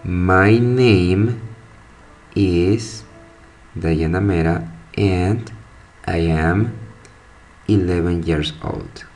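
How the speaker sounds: a slow, careful English sentence; teacher modelling an English answer; English pronunciation demo. Shown as a demonstration. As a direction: spell it out in speech for learners. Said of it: "La pronunciación sería".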